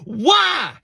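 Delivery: high, loud girl's yell, imitated; yelling at him like the girlfriend; mock yell. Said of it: "she yelled at me".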